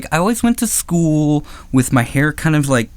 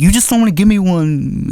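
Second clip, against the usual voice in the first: higher-pitched mock angry accusation; imitated angry accusation; 5 semitones higher than usual. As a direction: act out his annoyance, lightly. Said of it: "he was, like, super angry with me".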